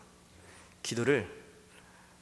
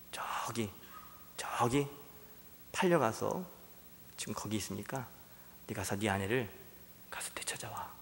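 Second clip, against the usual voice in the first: much softer, hushed, partly whispered; God speaking softly; 3 semitones lower, 8 dB quieter than usual. Acted. God quietly sends Hosea to buy back his wife, hushed. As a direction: speak low, almost breathing it. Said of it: "하나님이 호세아에게 이렇게 말씀하시는 거예요".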